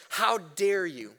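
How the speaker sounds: "How" stretched out, each word weighed and slow; a slow, measured reproach to the church; slow indignant rebuke. Retold or imitated. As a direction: drag out "How dare you" like a stern apostle. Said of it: "Paul says".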